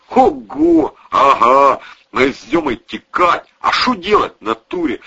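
loud, excited street-tough boasting; coarse loud gangster storytelling; bragging thug. Acted. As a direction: brag to the friends, pumped up. Protasov bragging about the fight.

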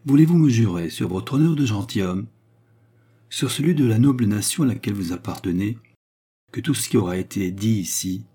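lightly voiced woman asking for an oath; solemn Baccarat. Baccarat asks the count to swear secrecy, solemn. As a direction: press gravely for a promise, measured.

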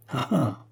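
a short, mild sneering laugh; a hint of a villain's sneer; sinister snicker. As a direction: snigger darkly to yourself. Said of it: "avec un ricanement sinistre".

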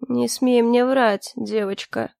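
медленно, с угрозой, «девочка» тише; давит каждым словом, медленно и тихо к концу; угроза. Acted. Угроза пирата Рота. (пират угрожает девушке: медленная тихая угроза)

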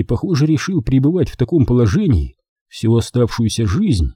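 ordinary delivery, nothing marked

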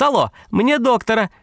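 high thin female voice calling; a woman crying out for the doctor, pitched high; тоненький женский голос. A narrator's reading. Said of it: "крикнул тоненький женский голос".

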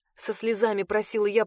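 usual speaking voice

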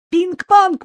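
"Пинг-понг" burst out very high and loud, quick and falling; boy blurting out the news; jubilant. A narrator's reading. Boy telling mum about the ping-pong table, jubilant high outburst. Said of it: "ликовал мальчик".

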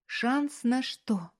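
a strangled, tearful question; choked. A narrator's reading. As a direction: squeeze the words out through tears. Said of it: "сдавленно спросила она".

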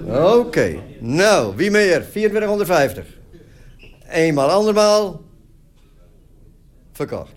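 high, lively auction calls; auctioneer. Real, not acted. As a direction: call out the bids like an auctioneer. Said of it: "Assistent veilingmeester voor vandaag".

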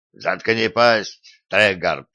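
slow, harsh barked command; barking order. Acted. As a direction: snap the order at him. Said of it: "рявкнул Делани".

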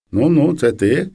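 slow, drowsy question from a half-woken woman; like she was just dragged out of bed, slowed down; sleepy voice. Retold or imitated. Neighbour woken at dawn by the girl, sleepy and slow. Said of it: "питає заспаним голосом".

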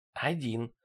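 soft hushed answer; reply under your breath; secretive whisper. A narrator's reading. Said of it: "также шёпотом ответил я".

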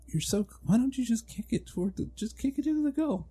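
high, mocking sports commentator; mock announcer voice. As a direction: imitate a clueless TV announcer. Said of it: "it's like".

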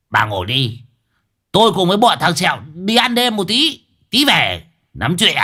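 a hint of an offhand old husband; lightly voiced old man. Husband tells wife from car window, lightly voiced offhand. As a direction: brush her off casually.

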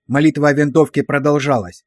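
plain reading voice

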